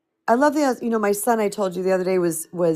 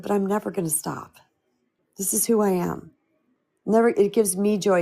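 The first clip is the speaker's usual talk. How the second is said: gentle reply. Retold or imitated. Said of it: "I looked at him so gently".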